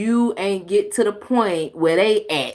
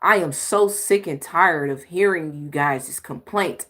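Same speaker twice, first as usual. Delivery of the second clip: mock exasperated huff; 3 semitones lower than usual. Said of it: "I'm huffing and puffing".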